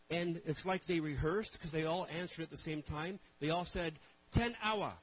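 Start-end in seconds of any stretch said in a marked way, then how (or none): 4.3-4.9 loud, high chorus call of ten hour; shouting the answer all together; unison shout. Retold or imitated. Pastors answering Pastor Joe in one loud shout.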